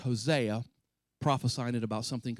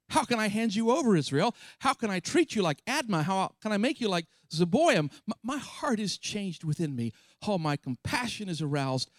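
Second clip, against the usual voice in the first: anguished pleading; 3 semitones higher than usual. Acted. God pleading over Ephraim.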